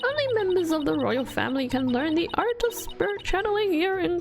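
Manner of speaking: a rambling, self-pitying grandma; old lady voice. Acted. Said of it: "I'm butchering this voice acting".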